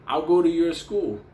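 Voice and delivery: playing Benny as happy to check it out; cheerful Benny. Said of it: "he goes".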